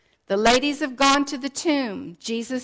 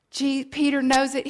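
ordinary delivery

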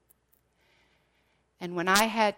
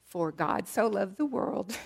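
laughing through it; 4 semitones higher, 6 dB louder than usual. Real, not acted. Reading childhood note, laughing.

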